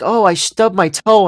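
lightly put-on sissy moan; little Nancy. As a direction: send yourself up as a delicate whiner. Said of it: "I feel like little Nancy".

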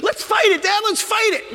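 put-on very high, loud pleading child; a son begging to fight the bear; eager kid shout. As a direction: beg to fight it.

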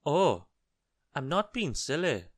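high, loud goblin voice; perky goblin contradiction; protesting goblin. A narrator's reading. Goblin protests to Mister Uppity.

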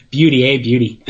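jokey mock-Canadian accent. Co-host joining the hoser joke, mock Canadian accent. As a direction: toss it off like a cartoon Canadian. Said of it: "I can do the Canadian accent".

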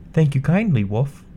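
put-on bright, high young girl; a sweet, polite little girl. Red Riding Hood answers wolf.

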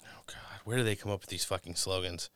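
whispered, fed-up aside; whispered disgust at slogans; exasperated whisper. Real, not acted. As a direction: hiss it under your breath in disgust. Aside groan at political slogans.

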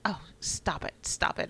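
breathy, coy "stop it" like being complimented; imitating a toddler flattered by dad. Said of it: "sounded like, "Oh, you're flattering me".

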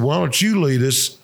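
chuckling while retelling the insult; laughing through the quote. Retold or imitated. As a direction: laugh through it, half joking.

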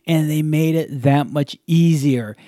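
upbeat, even podcast ad read; sponsor ad read. Acted. Host thanks the podcast's sponsor, ad read. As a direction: sell it like a loyal fan.

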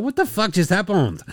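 high, baffled mock French accent. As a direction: ask it like a stunned caricature Frenchman. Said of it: "all accents and vocalizations approximate".

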